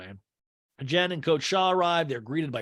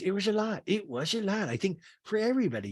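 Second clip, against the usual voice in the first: high mock-delicate voice; Meredith; 5 semitones higher than usual. Meredith answers about the trip, imitated in high voice. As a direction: lift the pitch, keep it light. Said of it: "Meredith goes".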